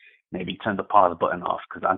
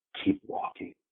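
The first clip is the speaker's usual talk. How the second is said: put-on angry resentful voice, quieter. Retelling what a man said to them on the street, imitating an angry, resentful line. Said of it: "just all the anger".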